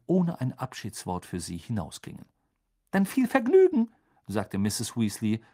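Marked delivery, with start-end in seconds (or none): 2.9-3.9 high, loud send-off; cross farewell. Acted. Mother sees family off after quarrel, high cross farewell. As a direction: call goodbye while still annoyed.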